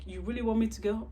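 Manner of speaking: high, quick, loud imitated question; mock disbelief. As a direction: imitate a date who can't believe it. Retells date's disbelief at leaving.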